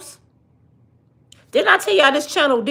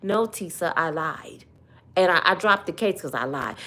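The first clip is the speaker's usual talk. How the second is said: meek confession; 6 semitones lower, 6 dB quieter than usual. Retold or imitated. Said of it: "And Little Hands said".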